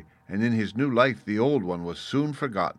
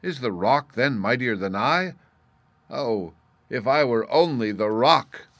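wondering cry; 3 semitones higher, 6 dB louder than usual. A narrator's reading. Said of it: "cried in wonder".

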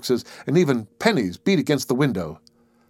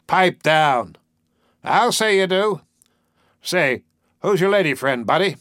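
higher, louder jeering interruption; heckling soldier; 6 semitones higher, 3 dB louder than usual. A narrator's reading. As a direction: cut him off with a rowdy heckle. Drunk soldiers heckle Henry's speech.

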